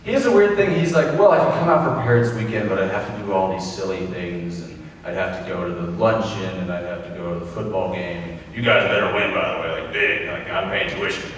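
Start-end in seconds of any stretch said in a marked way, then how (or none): 1.2-11.3 mock Texan dad. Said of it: "I like to play up the Texan".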